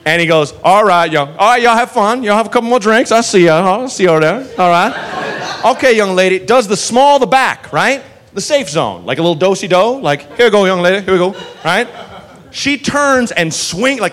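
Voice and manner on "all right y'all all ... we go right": a lightly voiced, breezy good-ol'-boy cop greeting the whole bar; Andy Griffith. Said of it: "this Andy Griffith".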